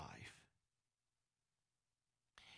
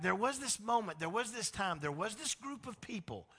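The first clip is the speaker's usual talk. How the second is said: higher, lightly voiced God recounting; lightly voiced God recalling Israel; God speaking; 7 semitones higher, 4 dB louder than usual. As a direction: tell it as God, a touch raised. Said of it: "And so he's like".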